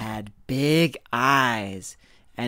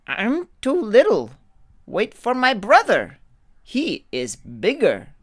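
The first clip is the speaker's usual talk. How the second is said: put-on high, louder pleading kid goat; begging little goat; 10 semitones higher, 6 dB louder than usual. Little goat begging the troll to wait, pleading. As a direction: plead for your life, squeaky and quick. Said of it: "begged the little goat".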